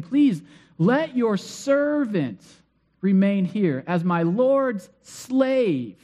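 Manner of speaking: slow pleading. Retold or imitated. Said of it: "you know, he's begging".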